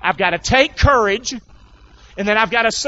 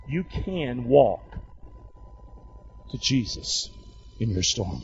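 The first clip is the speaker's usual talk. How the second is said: fading to hush; 7 semitones lower, 8 dB quieter, slower than usual. Acted. Closing appeal fading to hush.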